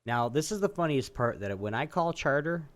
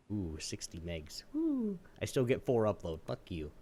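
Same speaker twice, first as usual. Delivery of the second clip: much softer, mock impressed; sarcastic; 4 semitones lower, 4 dB quieter than usual. Real, not acted. Mocking Comcast's doubled speeds to a friend, soft and sarcastic. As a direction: drop it low and sneer. Sarcastic ooh, muttered curse.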